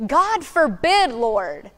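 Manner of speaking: forceful, mildly angry plea; strong and angry. Shown as a demonstration. Preacher imagining Peter rebuking Jesus, with mild anger. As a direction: say it with strength and anger. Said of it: "with strength and anger in his voice".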